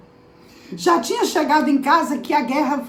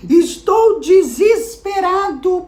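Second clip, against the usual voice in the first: despairing father; 3 semitones higher, 3 dB louder, slower than usual. Retold or imitated. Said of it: "ele declara pra ela".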